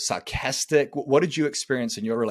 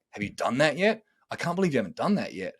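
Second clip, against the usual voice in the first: judgmental tone. Shown as a demonstration. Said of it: "very judgmental tone of voice".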